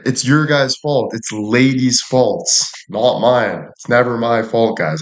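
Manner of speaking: ordinary delivery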